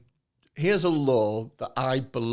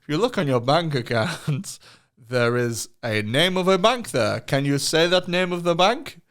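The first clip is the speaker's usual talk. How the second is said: generic scam caller voice. Retold or imitated. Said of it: "very general".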